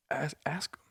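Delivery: hushed whisper; breathy whispered challenge; whispered dare. Real, not acted. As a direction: dare them quietly. Challenging aside.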